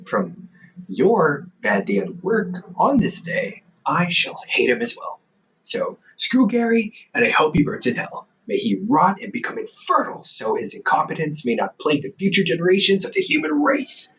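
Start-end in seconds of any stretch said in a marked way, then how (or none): 5.6-14.1 mock dramatic curse. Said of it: "Too much?".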